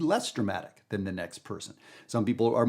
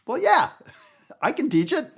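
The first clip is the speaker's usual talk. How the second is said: laughing; 4 dB louder than usual. Real, not acted. Laughing rebuttal to doubters.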